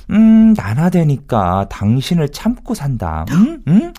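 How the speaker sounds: slow, drawn-out wifely put-down; acted wife. Husband quoting wife who puts up with him, slow mimicry. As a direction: lightly mimic a long-suffering wife. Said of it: "그러자 아내가 하는 말이".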